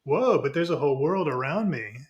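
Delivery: mild wide-eyed discovery; sudden realization. Acted. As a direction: play a lightbulb moment. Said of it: "Then all of a sudden".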